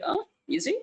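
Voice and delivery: high-pitched, acted-out "oh, look at that"; mock impressed exclamation.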